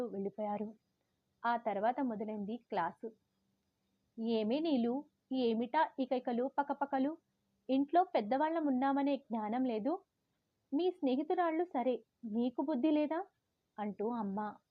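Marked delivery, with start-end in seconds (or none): 4.2-13.3 higher, reproachful mother's scolding. Retold or imitated. Mother scolding daughter after her friends' noisy visit.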